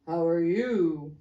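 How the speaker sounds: slow clipped greeting; gruff businessman. Acted. Second businessman returning the greeting slowly. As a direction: answer curtly.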